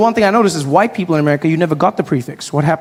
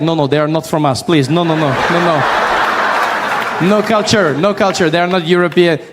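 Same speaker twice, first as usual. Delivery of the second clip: mock European accent; 3 semitones lower than usual. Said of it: "Europeans would be like".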